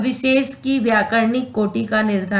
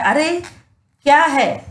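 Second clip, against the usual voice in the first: surprise; 4 semitones higher than usual. Shown as a demonstration. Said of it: "जैसे कि विस्मय होता है".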